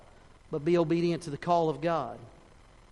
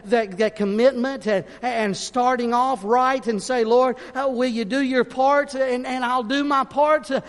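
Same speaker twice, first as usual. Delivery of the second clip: raised, high, urgent preacher's voice; impassioned preaching; 5 semitones higher, 6 dB louder than usual. Real, not acted. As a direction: preach it loud and high, pressing for commitment. Preaches at full force.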